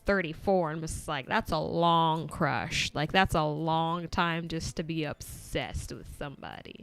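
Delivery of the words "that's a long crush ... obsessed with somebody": loud, drawn-out incredulous reaction; loudly appalled commentary; loud disbelief. Retold or imitated. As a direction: exclaim it in disbelief, stretching the key word. Incredulous reaction to lifelong crush.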